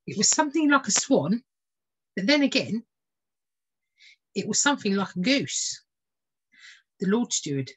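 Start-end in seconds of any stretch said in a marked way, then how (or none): 0.1-5.8 puzzled lady. Acted. Lady describing bird.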